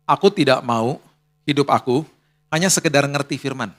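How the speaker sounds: a hushed sincere prayer to God; quiet prayer. Retold or imitated. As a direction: pray it humbly, low. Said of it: "bilang begini sama Tuhan".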